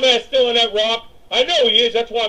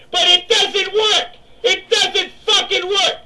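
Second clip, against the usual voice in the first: slow, higher exasperated complaint; frustrated; 7 semitones higher, slower than usual. Real, not acted. Gamer venting that the grenade won't stun, slow and exasperated. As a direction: drag it out, fed up with the game.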